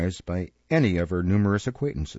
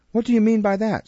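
gruff, louder surly demand; 11 semitones higher, 4 dB louder than usual. A narrator's reading. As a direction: growl it at her. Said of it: "looking up in a surly manner".

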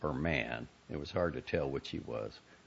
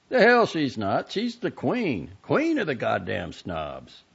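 louder, higher, slowing at the end; heated scorn; 7 semitones higher, 8 dB louder than usual. A narrator's reading. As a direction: spit out queen of the snobs. Brother escalates.

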